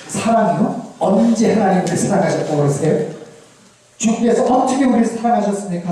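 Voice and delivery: mildly defiant, disbelieving questions; talking back. Acted. Israel talking back to God, mildly defiant and disputing. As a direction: answer back point by point, challenging. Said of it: "따박따박 말대꾸를 합니다".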